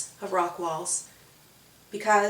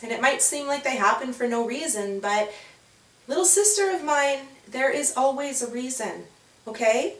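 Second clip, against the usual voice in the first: gentle big sister; 3 semitones higher than usual. Acted. Holly comforting Winter up close, tender. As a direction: comfort her little sister. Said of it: "leans in really close".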